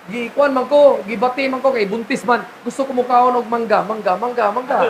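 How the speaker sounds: softening, dreamy craving for mango; pregnant wife craving. Retold or imitated. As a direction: mimic a pregnant wife's craving. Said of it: "sabi niya". (nangangailangang malambing na boses ng buntis)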